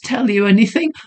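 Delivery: high, defiant lady; defiant young woman. Acted. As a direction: refuse him flatly. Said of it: "with sudden defiance".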